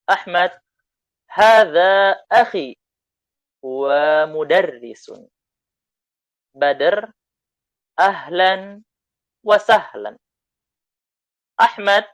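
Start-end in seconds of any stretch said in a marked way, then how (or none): 1.3-5.3 voicing Ahmad. Teacher voicing Ahmad introducing brother. 8.0-10.1 voicing Badr. Teacher voicing Badr greeting.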